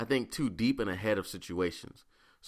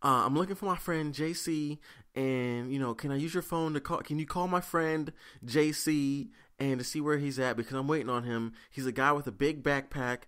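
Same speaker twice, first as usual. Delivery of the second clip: imitating the homeless lady; 5 semitones higher than usual. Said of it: "she's like".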